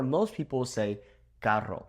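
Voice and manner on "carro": 'carro' with a trilled Spanish R; rolled R. Shown as a demonstration. Teacher shows the Mexican word, 'carro' with rolled R. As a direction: roll the double R in 'carro'. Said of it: "with that rolled R".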